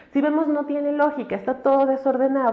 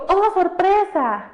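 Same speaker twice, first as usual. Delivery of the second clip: hammed-up surprised cry, higher, louder and slow; mock surprise; 7 semitones higher, 4 dB louder, slower than usual. Teacher acting out a typical exclamation, mock surprised. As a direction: gasp it out like a stock stage exclamation. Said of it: "el típico".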